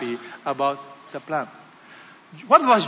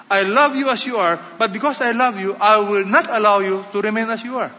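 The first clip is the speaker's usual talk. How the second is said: lightly voiced God, higher, louder and insistent; God speaking; 4 semitones higher, 4 dB louder than usual. God refusing to leave people as they are, emphatic declaration. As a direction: press each clause home emphatically, pitched up. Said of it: "God is saying".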